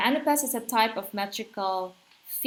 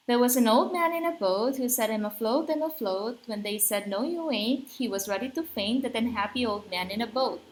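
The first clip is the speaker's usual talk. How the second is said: brisk, bouncing verse recital; rhythmic limerick reading; faster than usual. Shown as a demonstration. Teacher reading a real limerick to show its musicality, lilting and rhythmic. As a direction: recite it with a rolling anapest lilt. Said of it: "Let's read a real one".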